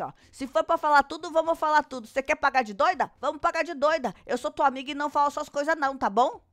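mock-furious dare, retold; very angry. Gisele dares Luana to tell everything, acted anger. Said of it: "Ainda super pistola".

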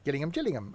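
Gillingham with a hard G, then Gillingham as Jillingham; "Gillingham, Gillingham" going from G to J sound; both pronunciations. Acted. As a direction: give Gillingham both ways, gill then Jill. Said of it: "Exactly, just say both".

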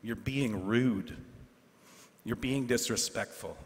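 quiet, deliberate scolding of the class; stern rebuke. Retold or imitated. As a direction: lay it down slowly, like a disappointed teacher. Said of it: "I told this group".

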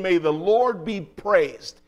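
emphatic preacher's call to worship; rally everybody to join in praise; joyful praise. Retold or imitated. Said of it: "he begins to speak with joy unspeakable".

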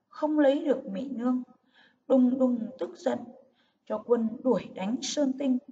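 heroic battle narration, action words stressed; rousing epic storytelling. Shown as a demonstration. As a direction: read it like an epic battle, lifting key phrases. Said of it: "đọc giọng cao, hào hùng".

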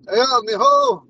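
high, loud retold "Yeah, mijo" tossed off casually; masculine Ponca way. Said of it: "It, it's a masculine way".

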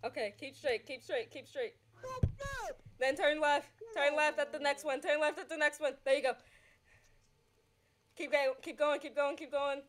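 rapid-fire, repeated directions; fast talking. Real, not acted. Passenger directing the driver, fast talking. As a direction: rattle off the route like a navigator. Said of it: "can talk like that, that fast".

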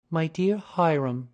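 loud, exasperated appeal; cry to husband. A narrator's reading. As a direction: call out to your husband, drawn-out and loud. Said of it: "cried Missus Otis".

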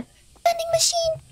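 breathy unvoiced whisper; hushed, conspiratorial whisper. Real, not acted. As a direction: whisper it like a secret. Whispered line while exploring.

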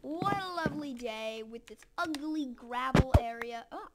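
mock British accent, lightly done; a touch of playful British. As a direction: say it in a casual put-on British accent. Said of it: "talking in a British accent".

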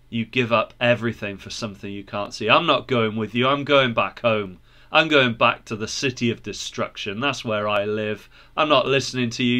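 lightly voiced stubborn refuser; scornful Obstinate. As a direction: dismiss them curtly, keeping the pitch down.

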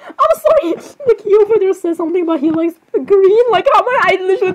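high, giggly squeal; laughing apology. Real, not acted. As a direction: talk through a rising fit of giggles. Giggling fit over the subtitle.

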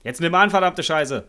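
loud, high angry swearing; cursing under breath. Real, not acted. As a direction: curse at her, fed up. Impatient yelling at girlfriend.

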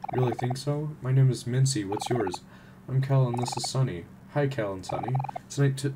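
lightly acted character dialogue read aloud; voicing the game characters. Streamer reading townsfolk and friends' dialogue, lightly acted. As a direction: read each character's lines with light acting.

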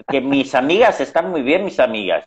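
imitando a la madre. Retold or imitated. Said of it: "y empezaba".

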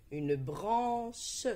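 "branche" découpé, première syllabe allongée; découpage en syllabes. Shown as a demonstration. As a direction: detach the final "che" of "branche". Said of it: "Dis la première syllabe de chaque mot". ("branche" articulé syllabe par syllabe)

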